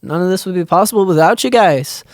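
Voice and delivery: put-on playful botched Irish-ish accent; exaggerated not-quite-Irish accent. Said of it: "Did he just turn Irish for a second?".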